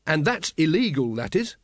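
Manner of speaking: pleased and eager; happy. Acted. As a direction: say it with relish. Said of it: "said Carrot happily".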